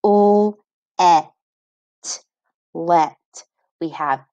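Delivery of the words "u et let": sounding out let. Shown as a demonstration. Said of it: "giving us a short sound".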